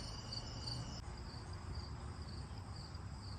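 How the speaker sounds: soft unvoiced giggle, cracking up; quiet breathy laugh. Real, not acted. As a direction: silent laughter, trying to hold it in. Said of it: "can't keep a straight face".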